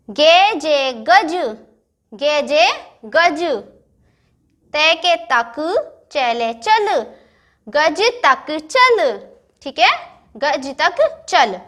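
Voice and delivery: गे जे then गज, each syllable drawn out slowly; slow syllable reading. Shown as a demonstration. Teacher reading गज तक चल syllable by syllable. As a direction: blend letters into words very slowly. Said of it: "sentence पे ध्यान दीजिए".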